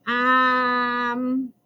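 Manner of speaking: nervous um with a cracking voice. A narrator's reading. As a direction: let the voice crack on the um. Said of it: "my voice cracks".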